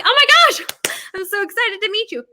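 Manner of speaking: high, gushing fan squeal; excited fan. Retold or imitated. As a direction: gush like a starstruck fan meeting her. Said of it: "If you're like".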